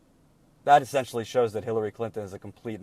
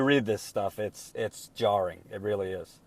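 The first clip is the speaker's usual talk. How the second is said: low, subdued and softer; troubled; 4 semitones lower, 7 dB quieter than usual. Real, not acted. Commentator reacting to reading the leaked speeches, troubled. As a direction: sound quietly jarred by what you read. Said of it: "I'm very troubled".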